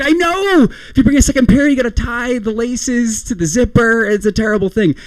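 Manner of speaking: high, commiserating gush; hammed-up thrilled buddy; excited agreement. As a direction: agree eagerly, pitch way up. Friend excitedly agreeing about shoes.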